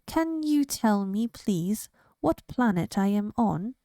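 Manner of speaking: lightly squeaky little alien voice; a hint of a timid wobble; squeaky shaky alien. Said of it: "said a squeaky, shaky voice".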